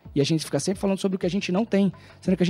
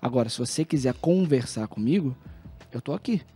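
calm talk to daughter; 4 semitones lower, 4 dB quieter than usual. Retold or imitated. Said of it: "Aí eu falo assim".

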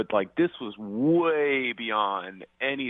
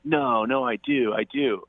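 high-pitched mock protest, "No, no" pitched up; upset insisting; 7 semitones higher, slower than usual. Retelling date insisting she looks ugly, mild mock protest. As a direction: imitate her upset denial, lightly. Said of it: "And she's like".

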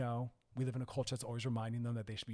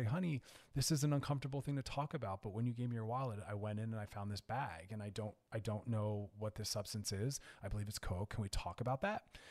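lovingly and calmly. Shown as a demonstration. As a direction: calmly open a hard conversation without blame. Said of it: "so you lovingly, calmly sit down and say".

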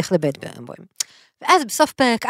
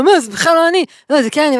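higher-pitched mock denial; retold character's protest; 5 semitones higher, 4 dB louder than usual. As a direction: lightly act out a quick back-and-forth. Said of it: "ואז הוא אומר לו". (חיקוי קל של הכחשה, בקול גבוה)

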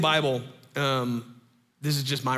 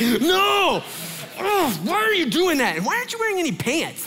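very high-pitched, mock-frantic scolding; exasperated parent; 13 semitones higher, 3 dB louder than usual. Startled parent to three-year-old at night, frantic exasperation. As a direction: freak out at your kid in a high voice.

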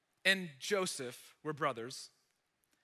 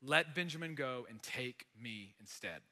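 soft, hushed self-sacrifice; quiet offer; 5 semitones lower, 6 dB quieter than usual. Retold or imitated. Judah to Joseph, offering himself instead, quietly. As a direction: offer yourself gently in his place. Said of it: "And Judah's like".

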